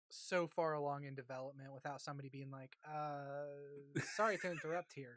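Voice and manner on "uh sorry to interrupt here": light mock Swedish accent; a hint of a Swedish accent. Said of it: "Gucci Swedish".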